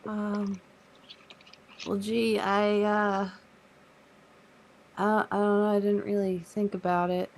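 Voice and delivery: put-on high, halting kid-like voice; hesitant Carl Junior. Carl Junior is asked what he wants, high and hesitant.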